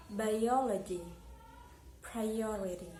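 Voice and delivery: "biology, priority" with a strong O; stress on third-last syllable. Shown as a demonstration. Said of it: "second syllable before the last one".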